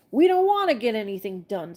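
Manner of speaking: a touch of irritation, lightly voiced; understated angry snap. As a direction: mildly snap the line back. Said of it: "snapped another angrily".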